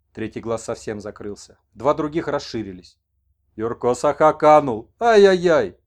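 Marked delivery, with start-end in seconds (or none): 3.6-5.8 loud wailing ai-yai-yai, slow; lamenting shaman. Acted. Messenger laments to the old man that Yurko vanished. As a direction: wail over the lost one.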